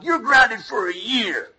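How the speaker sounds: stern parent. Retold or imitated. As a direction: hand down the punishment slowly. Parent punishing child.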